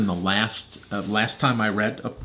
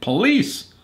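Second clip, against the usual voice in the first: high, loud call for police; storybook shriek out to the street; mock scream; 12 semitones higher, 6 dB louder than usual. A narrator's reading. Missus Gluckenstern out her window, acted screaming. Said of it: "was screaming all sorts of things".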